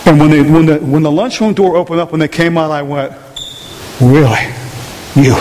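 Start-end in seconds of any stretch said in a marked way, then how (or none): 4.0-5.3 low, stunned reaction; retold disbelief. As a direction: let it drop in acted disbelief. Retells reaction on seeing the culprit.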